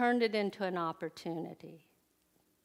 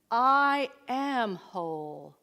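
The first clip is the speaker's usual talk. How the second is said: slow, deliberate affirmation, a little louder; 4 dB louder, slower than usual. Shown as a demonstration. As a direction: savour "I am whole" as a solemn self-affirmation. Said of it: "two words to use".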